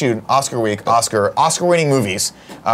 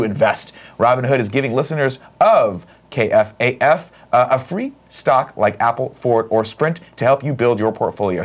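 ad read. Acted. Reads a sponsor ad.

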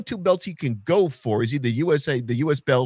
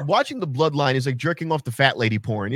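ordinary talk

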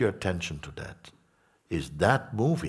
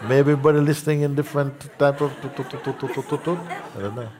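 high, loud laughing through the words; 9 semitones higher, 6 dB louder than usual. Real, not acted. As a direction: crack up while talking. Teacher laughing at the noise.

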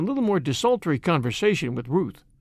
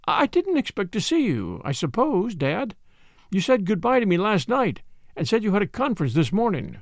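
higher, lightly acted daughter, a touch flustered; lightly voiced startled daughter; 4 semitones higher than usual. Daughter to her unexpected father at the station, mildly flustered. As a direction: play the daughter, mildly surprised.

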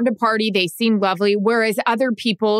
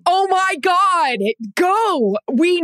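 excited squeal; 9 semitones higher, much slower than usual. Real, not acted. Excited eager prompt.

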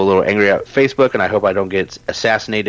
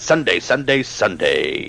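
fast announcer hype. Pretend. Podcaster playfully plugging the website like an ad, announcer hype. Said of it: "three times fast like that".

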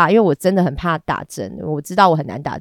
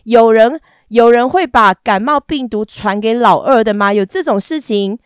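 夸张质问；放慢、加重的不可置信；大声反问，故作惊讶地慢慢拖出来；跟大壮夸张地抬杠，故作惊讶的质问; 3 semitones higher, 5 dB louder than usual. Retold or imitated. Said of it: "然后我想说".

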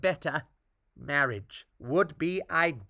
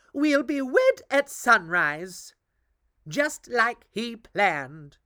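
gloating witch voice; 4 semitones higher than usual. Acted. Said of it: "said the other queen".

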